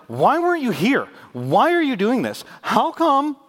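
high, loud whining plea at God; imitating a frantic prayer to God; mock desperate cry. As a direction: cry out like someone whose life fell apart.

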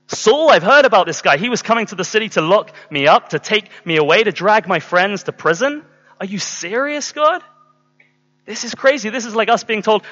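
high-pitched, acted objection; imitating someone aghast at an order; incredulous protest. Acted protest of Ananias to God.

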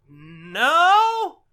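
high, loud shouted no; called no. Retold or imitated. Kid answering the neighbor, loud high no. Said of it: "And it's like".

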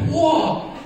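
high, loud astonished whoa; stunned whoa. Retold or imitated. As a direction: jaw drops as the ball flies. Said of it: "I was like".

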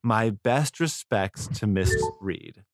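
a touch of put-on British accent. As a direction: finish the letter in a mock British voice. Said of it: "I don't know why I'm talking in a British voice".

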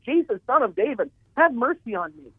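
a blind man calling out to Jesus, begging; imitated scream. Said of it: "he screamed aloud".

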